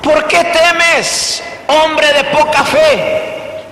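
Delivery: slow, measured question from Jesus; gentle rebuke. Acted. Pastor voicing Jesus questioning the disciples, slow. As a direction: slowly ask why they fear. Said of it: "Y les dijo Jesús".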